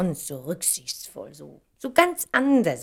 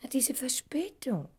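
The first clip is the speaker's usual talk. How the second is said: whisper; 6 semitones higher, 6 dB quieter than usual. Acted. Whispers about the delay.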